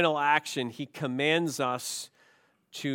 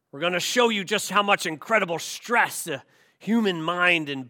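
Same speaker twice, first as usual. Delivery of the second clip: a lightly voiced barking drill sergeant, louder; 3 semitones higher, 4 dB louder than usual. Preacher quoting the Ranger School sergeant to new recruits, mild drill-sergeant bark. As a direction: play the tough sergeant addressing recruits. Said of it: "the raspy voice of the sergeant".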